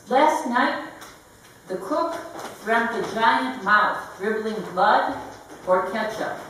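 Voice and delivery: deliberate, phrase by phrase recital; measured poem delivery; poetry reading. Acted. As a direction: read each image separately, with a pause after it. Reads own poem aloud.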